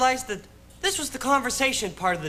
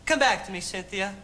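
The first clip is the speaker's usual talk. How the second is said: tag; 2 semitones lower than usual. Acted. Tender plea to departed date.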